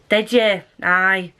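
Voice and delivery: sarcastic Scottish "Did ya? Aye."; reply as if you don't believe them; dry disbelief in a Scottish accent. Shown as a demonstration. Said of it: "it's very sarcastic".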